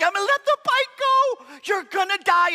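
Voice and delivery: high, loud frightened rush; panicked. Retold or imitated. Holding the bike at the cliff, a high panicked cry. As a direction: sound like your grip is failing.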